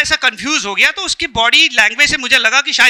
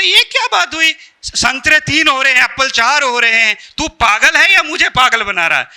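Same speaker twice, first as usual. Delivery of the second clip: acted exasperation. Teacher scolding student over the count, exasperated.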